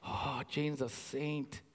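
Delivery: quiet, slow, dry aside about the wife; deadpan joke. Pretend. Pastor joking to the congregation, quiet and deadpan. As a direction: murmur the joke like a weary sigh. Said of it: "the joke that I had".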